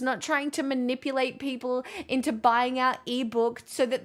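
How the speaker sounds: heated inner monologue, voice up high; inner rant. Retold or imitated. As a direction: vent the outrage at the ebook seller. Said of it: "I'm like".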